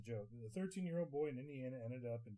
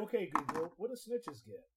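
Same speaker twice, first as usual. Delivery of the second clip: loud command; 4 semitones higher, 8 dB louder than usual. Real, not acted.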